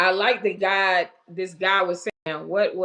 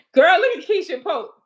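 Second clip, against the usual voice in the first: words spilling through high laughter; host cracks up reading a viewer comment, laughing; 11 semitones higher, 5 dB louder than usual. Real, not acted. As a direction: laugh while you point it out.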